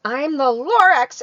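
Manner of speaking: high, loud creature voice; Lorax voice. Acted. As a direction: announce himself as the fussy Lorax. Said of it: "he coughed".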